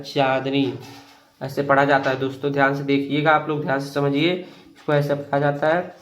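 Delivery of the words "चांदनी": चांदनी with a drawn-out चां; reading demonstration. Shown as a demonstration. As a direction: hold the first syllable of चांदनी, then finish दनी. (चांदनी में चां को खींचकर)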